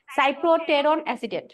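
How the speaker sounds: সাইপ্রোটেরন said slowly with "সাই" at the start; slow careful pronunciation. Shown as a demonstration. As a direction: spell out সাইপ্রোটেরন অ্যাসিটেট slowly, beginning "সাই". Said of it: "আমি সাইপ্রো বলি আবার কিপ্রো বলি". (ধীরে স্পষ্ট উচ্চারণে "সাইপ্রোটেরন")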